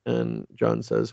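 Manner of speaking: ordinary delivery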